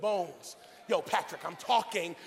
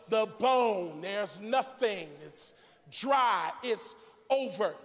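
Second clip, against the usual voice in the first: driving sermon litany; emphatic preaching; 3 semitones higher than usual. Acted. Preacher listing endings to the church, emphatic preaching. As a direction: hammer each ending home to the congregation.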